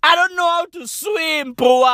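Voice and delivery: high, panicky shout; panicking. Retold or imitated. Mocked community member panicking about swimming. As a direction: wail that you can't escape. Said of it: "motherfuckers like".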